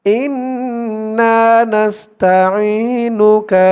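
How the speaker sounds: slow melodic recitation of আল্লাহুম্মা ইন্না নাস্তাইনুকা. Shown as a demonstration. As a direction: chant it drawn out, falling at the end. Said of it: "যেমন টান করব". (ধীর সুরেলা তিলাওয়াত)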